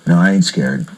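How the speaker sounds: mock-tough guys trading a joint; low, swaggering imitation of stoners. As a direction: play the nervous guys acting brave. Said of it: "everybody sitting there going".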